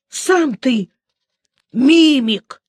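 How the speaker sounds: throaty, rising indignant cry; guttural creature voice. A narrator's reading. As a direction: growl it out like an offended monster. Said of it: "гортанно проговорило существо". (гортанный голос существа)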